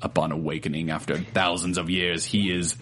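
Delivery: low, dramatic trailer narration with a few laughing breaks; movie trailer voice. Shown as a demonstration. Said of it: "should I read it in movie trailer voice?".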